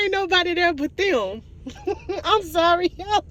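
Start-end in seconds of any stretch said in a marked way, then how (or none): 1.7-2.2 short giggle. Real, not acted. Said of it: "I don't mean to laugh".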